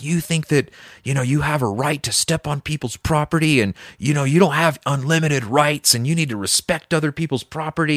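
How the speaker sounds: high-pitched retold lecture; berating cop. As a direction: imitate an officer ranting on and on. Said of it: "berating me".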